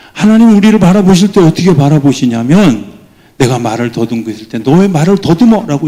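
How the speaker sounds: high, loud preacher's burst; fervent preaching. Acted. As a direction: drive the point home, loud and high. Preaching at full force. (높고 큰 소리로 열정적인 설교)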